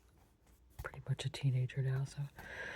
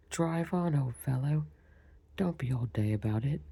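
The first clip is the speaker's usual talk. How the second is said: impatient Gryphon; 3 dB louder than usual. Acted. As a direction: hurry him along with a nudge. Gryphon urging turtle on.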